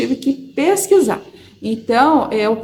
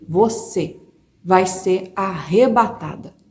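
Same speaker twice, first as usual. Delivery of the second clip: voice of God; 3 semitones lower, slower than usual. Retold or imitated. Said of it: "eu escutei uma voz alta".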